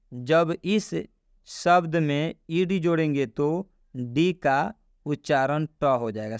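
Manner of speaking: slow, measured read of a written rule; reading a rule aloud. Shown as a demonstration. Teacher reads the rule on screen to learners, slow read-aloud. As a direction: spell the rule out slowly, phrase by phrase.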